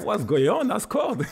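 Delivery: high, loud retold goal celebration; losing his mind. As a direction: relive the thrill of scoring, voice leaping up. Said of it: "you lose your mind".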